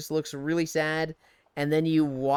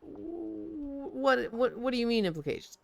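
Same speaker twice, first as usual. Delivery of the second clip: mock alarmed; 9 semitones higher, 6 dB quieter than usual. Feigned alarm at implications.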